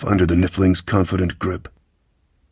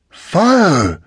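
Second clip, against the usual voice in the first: high, loud battle cry; shouted command; 10 semitones higher, 5 dB louder than usual. A narrator's reading. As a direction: yell the order to the guns. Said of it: "Kyla shouted again".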